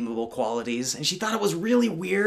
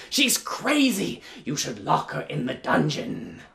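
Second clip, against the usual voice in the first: scheming mother. Acted. Mother lies to the prince.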